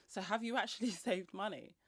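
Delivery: a gentle chuckle through the words; kind gentle laugh. Real, not acted. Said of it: "I'm not laughing at you".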